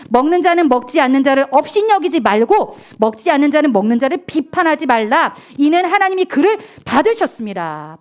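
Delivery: loud unison scripture read; congregation reading scripture. Real, not acted. Pastor leading the church in reading the verse aloud. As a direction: read it out together. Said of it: "시작".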